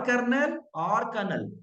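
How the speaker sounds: कर्नल said as kur-nal, slowly; kur-nal said slowly and carefully; slow correct pronunciation. Shown as a demonstration. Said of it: "इसको क्या बोलेंगे". (कर्नल को धीरे-धीरे सही उच्चारण में कहना)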